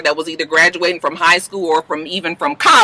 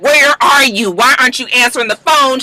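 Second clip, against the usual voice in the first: mock exasperated caller, pitched up; impatient demanding; 4 semitones higher, 3 dB louder than usual. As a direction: demand answers like an ignored caller. Retold impatient phone calling.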